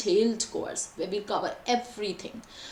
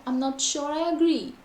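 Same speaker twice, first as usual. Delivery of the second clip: higher pitch on "I'm not sure I agree"; expressive intonation; 4 semitones higher than usual. Shown as a demonstration. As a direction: lift the line as a model answer. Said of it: "So there's a lot of intonation".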